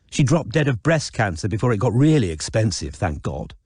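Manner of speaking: lightly voiced posh sister, dismissive; Izzy callous. Izzy to Raph, gossiping about Tinky, lightly callous. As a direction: dish the dirt with careless disdain.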